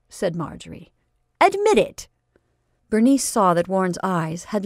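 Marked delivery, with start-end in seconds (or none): 1.4-2.1 much higher loud taunt. Acted. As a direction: push her to confess. Marjorie presses Bernice.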